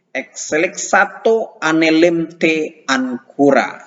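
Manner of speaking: slow careful reading of Greek. Shown as a demonstration. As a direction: sound out each Greek word. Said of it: "latihan baca". (membaca Yunani pelan-pelan)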